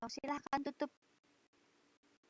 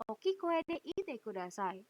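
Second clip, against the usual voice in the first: teacher asking louder; slower than usual. Shown as a demonstration.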